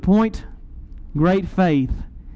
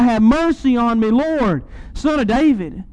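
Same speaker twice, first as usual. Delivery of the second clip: mild mock cry out; 4 semitones higher than usual. Distraught mother calls to Jesus over the crowd, retold pleading cry. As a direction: imitate a desperate call for mercy. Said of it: "start screaming and crying hysterically".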